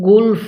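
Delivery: গুলফ with a full lam and a light fa; গুলফ at a pause, fa barely sounded; pausal pronunciation. Shown as a demonstration. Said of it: "এই লামটা পরিপূর্ণ ফাটা হালকা উচ্চারণ করব".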